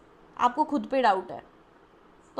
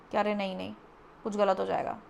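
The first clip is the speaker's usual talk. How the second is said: lower-pitched, backing off in mock worry; acted timid retreat; 4 semitones lower than usual. Reader voices client stepping back, fearing mistakes, acted timid retreat. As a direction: imitate losing nerve and pulling back. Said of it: "वो डर है".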